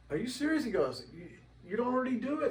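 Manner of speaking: high, fast, changed voice; mock astonished friend; astonished disbelief. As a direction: gasp at the newcomer. Guy's astonished reply.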